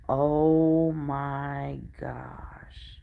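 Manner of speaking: slow, breathy disbelief; stunned. Retold or imitated. Cashier reacting to the paid-for groceries, slow amazed. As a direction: drag out the words in awe. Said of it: "she was just like".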